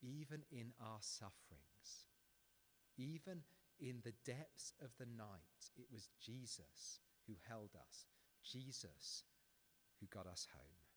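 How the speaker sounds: slow, soft, earnest reflection; gentle sermon close; tender preaching. Real, not acted. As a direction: speak comfort over their suffering, slowly.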